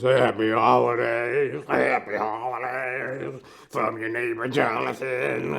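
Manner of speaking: put-on slow, loud, drawn-out drunken holiday wishes; drunk neighbor greeting. Drunk neighbor greeting people at their doors, slow and loud. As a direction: slur it out slowly like a hammered neighbor at the door. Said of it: "knocking on people's doors".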